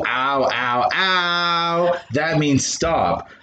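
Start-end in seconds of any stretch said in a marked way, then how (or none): 0.1-2.0 faking pain. Retold or imitated. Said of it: "When I go".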